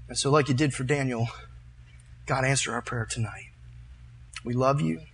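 heartfelt prayer, rising in force then settling; earnest public prayer. Real, not acted. Preacher leads the church in prayer to God, earnest. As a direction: plead with God on the congregation's behalf.

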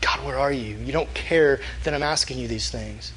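low, subdued mock prayer; softly voiced, let-down plea to God; discouraged pleading. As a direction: quietly act out a discouraged prayer. Despairing prayer, voiced in retelling.

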